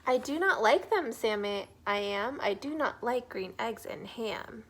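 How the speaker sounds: loud, stubborn refusal; grumpy storybook character. Acted. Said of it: "he thinks it looks a little strange".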